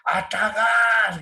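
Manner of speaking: drawn-out mock call to the field hands; retold shout. Grandfather calling the workers to eat, slow drawn-out mock yell. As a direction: stretch it slowly like a call across the farm. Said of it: "él gritaba".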